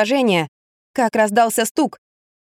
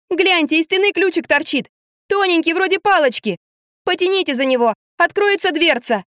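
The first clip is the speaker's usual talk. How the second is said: shouting instructions; 8 semitones higher than usual. A narrator's reading. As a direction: shout through the wall. Shouting instructions through wall.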